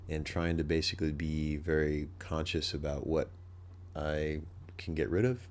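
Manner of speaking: stuffy nasal voice; talking through a blocked nose. Real, not acted. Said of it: "my nasally voice this entire time".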